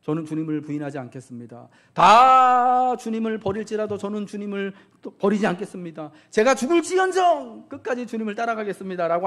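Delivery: Simon loudly swearing loyalty to Jesus; bold vow. Retold or imitated. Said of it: "아주 용감하게 나서서 말씀하시죠".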